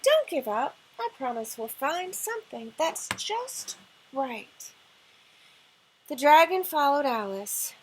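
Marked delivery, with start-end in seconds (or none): 0.0-4.7 gentle. Acted. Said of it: "she very gently said".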